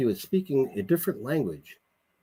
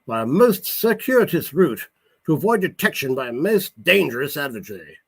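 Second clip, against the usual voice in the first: irritated; 4 semitones higher, 4 dB louder than usual. Acted. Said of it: "said with irritation".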